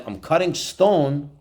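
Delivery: slow, measured worker's reply; patient answer. Acted. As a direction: explain the job slowly and patiently. Second worker first answers patiently.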